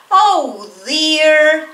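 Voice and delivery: teacher acting sorry for hurting someone; concerned oh dear. Shown as a demonstration. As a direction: fuss gently over someone hurt. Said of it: "Para expresar pity".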